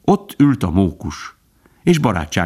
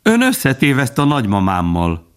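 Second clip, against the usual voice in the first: lightly voiced, higher squirrel; cheerful squirrel; 5 semitones higher than usual. A narrator's reading. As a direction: announce it brightly in a raised voice. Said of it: "A mókus vidáman nézett rá". (vidám, magasabb mókushang)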